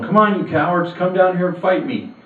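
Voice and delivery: bellowing taunt from across the valley; taunting giant. Acted. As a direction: jeer at them like a giant calling cowards out. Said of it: "hears him going".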